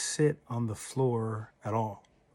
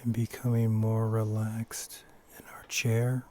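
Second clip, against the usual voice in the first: unhurried short phrases, each left to settle; guided meditation. Acted. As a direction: lead them gently into stillness, pausing often. Leads a breathing meditation.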